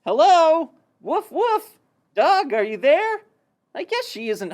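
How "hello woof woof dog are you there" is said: mouse calling at a door. Acted. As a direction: call out questioningly, louder on hello. Mouse calls at Dog's door.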